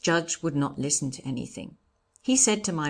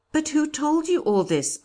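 high, loud demand; astonished question; 11 semitones higher, 5 dB louder than usual. A narrator's reading. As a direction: ask it in raised disbelief. Brother demands the informant's name.

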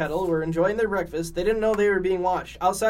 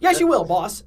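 King Dice voice; 3 semitones higher, 7 dB louder than usual. Acted. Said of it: "said King Dice".

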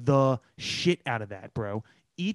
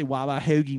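mocked Philly accent; 4 semitones lower than usual. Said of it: "I just don't need to hear you say".

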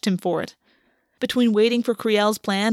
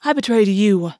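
sharp, louder retort; snapped; 4 dB louder than usual. Acted. August cutting Gwen off, sharp snap. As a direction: bite the line back at him. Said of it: "August snapped".

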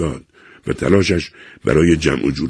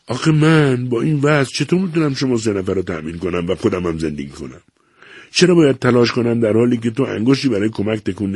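higher, rising plea of a desperate husband; pleading; 6 semitones higher than usual. A narrator's reading. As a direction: beg her to understand, voice climbing. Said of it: "ویلهلم به التماس افتاد".

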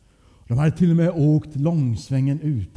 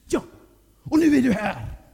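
hög, irriterad mammaröst; slå fast det förebrående; förebrående mamma; 9 semitones higher than usual. A narrator's reading. Arg mamma avslutar utskällningen. (upprört, med högre röst)

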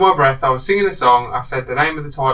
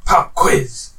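movie villain whisper. Shown as a demonstration. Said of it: "say the first clue in a way".

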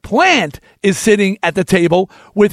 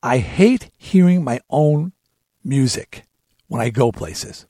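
quoting a singer; 6 semitones lower, 3 dB quieter than usual. Retold or imitated. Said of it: "a singer said to me".

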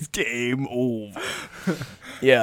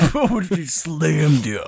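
laughing taunt; much slower than usual. Pretend.

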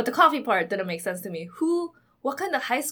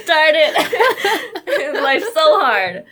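sarcastic; 8 semitones higher, 10 dB louder, much slower than usual. Pretend. Mocking privileged teen's plight.

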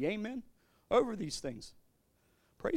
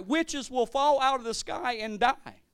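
slow preaching; 3 semitones higher, slower than usual. Real, not acted. Preaching climax continues.

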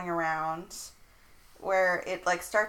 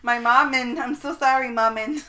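laughing; 4 semitones higher, 5 dB louder than usual. Real, not acted. Laughing at the autocorrect word.

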